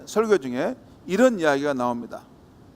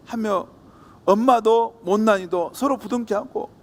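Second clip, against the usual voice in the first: ordinary talk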